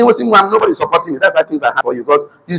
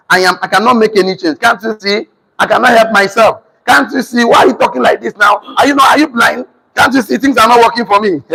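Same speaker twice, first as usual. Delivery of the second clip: whining victim; 4 semitones higher than usual. Acted. Acts out victim's complaint.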